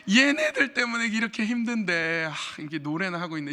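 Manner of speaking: mock frustration at the kids; a tired father's comic grumble; exasperated dad. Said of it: "이분이 딱 생각했대요".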